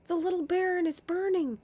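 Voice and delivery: high loud cry; panicked cry. Acted. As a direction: shout the alarm. Repeated cry.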